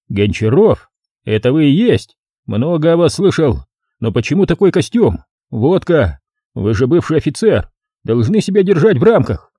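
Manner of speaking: lightly officious reproof; reproving policeman. Acted. Policeman reproves former officer, mildly officious.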